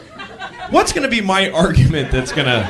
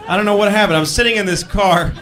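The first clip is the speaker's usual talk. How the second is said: ordinary talk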